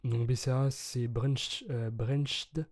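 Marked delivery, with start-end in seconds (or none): 1.1-2.7 French speaker's clumsy English accent; English word in a heavy French accent; bad English accent. Shown as a demonstration. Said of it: "J'ai vraiment un accent anglais".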